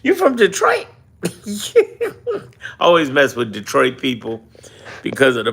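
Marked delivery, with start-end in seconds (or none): 0.0-0.9 high, mock shocked question; teasing disbelief. Real, not acted. 1.2-2.4 squealing burst of laughter; high laugh. Real, not acted. Laugh after Detroit tease.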